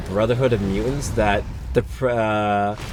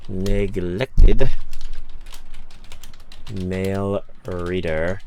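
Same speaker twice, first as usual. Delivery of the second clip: Shigaraki voice; 3 semitones lower, much slower than usual. Acted. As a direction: rasp out the title slowly. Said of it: "I get to sound like Shigaraki".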